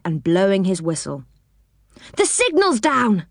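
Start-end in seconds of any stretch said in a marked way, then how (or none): 2.2-3.3 high eager shout; excited call. A narrator's reading. Rick calling to Joe from the engine, excited. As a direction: call it out to your mate. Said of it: "yelled Rick".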